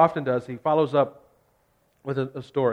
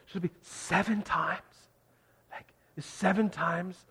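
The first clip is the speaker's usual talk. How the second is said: smug offer; 3 semitones higher, 9 dB quieter than usual. Retold or imitated. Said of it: "like he's being super generous".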